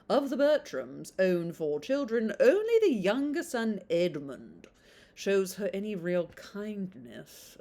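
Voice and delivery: put-on blurb read on in a light British accent. Reading the blurb to viewers, still in a British accent. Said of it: "I do do British accent".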